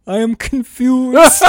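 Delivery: drawn-out comic sob breaking into laughter; tearful grandpa. Retold or imitated. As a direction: imitate a confused old man wailing.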